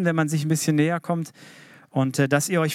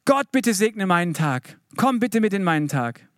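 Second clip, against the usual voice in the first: pious prayer; 4 semitones higher than usual. Retold or imitated. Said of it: "Wir beten manchmal so".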